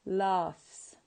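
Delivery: "laughs" ending in a crisp s. Shown as a demonstration. Teacher modelling the plural, "laughs" with s. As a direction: say "laughs" with a voiceless s. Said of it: "you have to pronounce it as".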